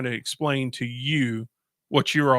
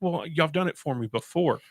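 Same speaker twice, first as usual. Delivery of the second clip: sarcastic; 4 semitones higher than usual. Retold or imitated. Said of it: "I'm like".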